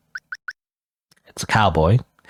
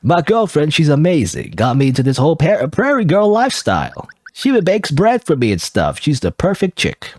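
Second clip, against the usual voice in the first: higher-pitched cowboy voice, lightly done; cowboy accent; 4 semitones higher than usual. Acted. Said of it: "how do you do a cowboy accent".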